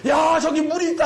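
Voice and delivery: acted shout from up ahead. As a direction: call out a discovery to those behind. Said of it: "소리를 지릅니다".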